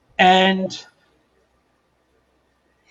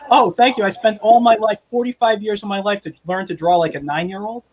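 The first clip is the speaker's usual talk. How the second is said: mock thanks, pitched up; higher, lightly hammed-up fake gratitude; sarcastic gratitude; 3 semitones higher than usual. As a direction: thank them with exaggerated, wounded sarcasm. Sarcastic answer to a backhanded compliment.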